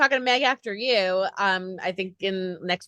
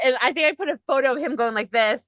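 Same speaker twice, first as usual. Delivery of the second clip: ordinary talk, nothing marked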